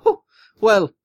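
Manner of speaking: light Irish lilt; a little bit of Irish accent. Retold or imitated. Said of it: "Why you go into an Irish accent?".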